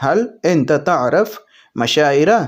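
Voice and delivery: slow, careful Arabic phrase; slow Arabic demo. Shown as a demonstration. Teacher showing viewers the Arabic, said slowly. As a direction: spell out "حل انت تعرف" slowly, word by word. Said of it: "تو اس کو عربی میں بولیں گے".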